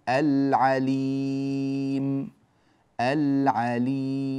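العليم with ل held before ع; slow, sustained العليم, long ي; clear lam demo. Shown as a demonstration. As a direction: model العليم with the ل distinctly sounded. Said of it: "هكذا اللامات ظاهرة هنا".

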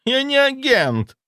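very high, slow indignant outburst; fly up in outrage; shrieking outburst. A narrator's reading. Zaitsev flaring up to deny being an agent. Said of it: "взвился он".

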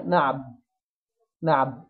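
نعب stopped on a light baa; smiling baa stop. Shown as a demonstration. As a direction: close نعب on a thin baa through a smile. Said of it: "وأنا مبتسم". (نعب بباء مرققة مع ابتسامة)

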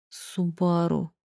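slow dazed mutter under breath. A narrator's reading. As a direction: murmur it slowly in shock. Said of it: "пробормотал он".

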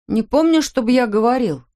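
put-on the boy's voice jumps up in fear; a frightened son pleading with his father; scared protest. Scared son repeats, higher.

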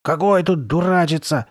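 husky, distressed comeback; hoarse objection. A narrator's reading. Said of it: "сиплым голосом возразила Карли Бет".

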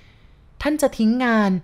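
startled question. A narrator's reading. Woman alarmed her beloved will quit his job, startled. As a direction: gasp it out in alarm, drawn out. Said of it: "เธอถามอย่างตกใจ".

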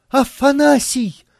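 high, loud call for help; commanding cry. A narrator's reading. Isabella calls the butler, commanding loud cry. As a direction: summon the servant sharply. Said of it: "повелительно крикнула".

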